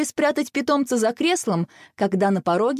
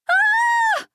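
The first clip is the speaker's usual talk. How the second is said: shrill scream, much higher and louder; 4 dB louder than usual. A narrator's reading. Mum seeing the insect, loud frightened scream. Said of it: "вскрикнула мама".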